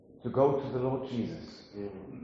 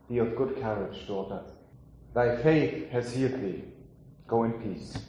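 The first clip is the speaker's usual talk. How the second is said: tender quote. Acted. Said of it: "To the lady, he said".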